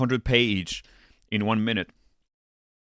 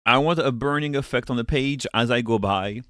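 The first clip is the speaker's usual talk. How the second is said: slightly winded speech; talking while short of breath; 4 dB louder than usual. Real, not acted. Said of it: "I'm a little out of breath today".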